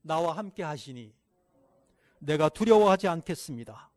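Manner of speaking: call and repeat. Shown as a demonstration. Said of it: "따라해보세요".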